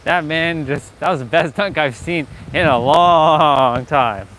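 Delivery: loud, slow raving; excited. Real, not acted. Raves about a dunk.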